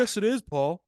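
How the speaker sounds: high, loud movie quote; high excited quote. Retold or imitated. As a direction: belt out the movie line, high. Quoting American Psycho scene.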